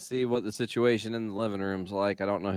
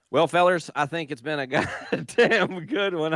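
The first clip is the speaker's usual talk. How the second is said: Southern voice; 3 semitones higher than usual. Acted. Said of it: "I was in Southern voice".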